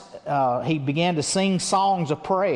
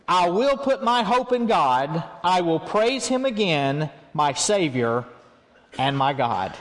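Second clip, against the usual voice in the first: change to hope. Acted. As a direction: read it as a resolute turn to praise. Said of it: "Watch him switch to change gears here".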